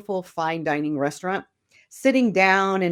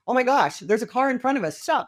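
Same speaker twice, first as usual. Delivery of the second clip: mock alarm; 5 semitones higher than usual. Driverless car voice warning.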